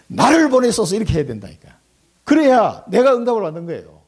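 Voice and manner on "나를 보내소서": fervent prayer. Acted. Right prayer after wrong one.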